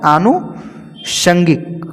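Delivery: आनुषंगिक very slowly, split as aanu, shangik; broken into parts. Shown as a demonstration. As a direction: draw out आनुषंगिक with a long break inside. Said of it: "क्या होता है?".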